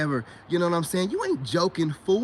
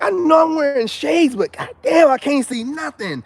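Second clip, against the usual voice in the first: higher and louder, squinting at a dim screen; loud mock complaint; 6 semitones higher, 9 dB louder than usual. To his viewers about the dim screen, a loud higher complaint. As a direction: complain loudly that you can't see. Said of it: "I'm like".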